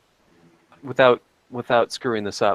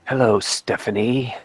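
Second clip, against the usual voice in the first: creepy caller; 2 semitones lower, 3 dB quieter than usual. Acted. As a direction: greet her like a stalker on the phone. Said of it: "That's not how I sound".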